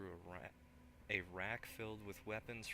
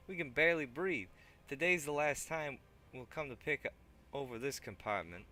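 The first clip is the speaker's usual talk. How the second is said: higher, louder put-on thug; 7 semitones higher, 9 dB louder than usual. Thug eyes the weapon rack, loud put-on voice. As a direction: keep the thug voice going.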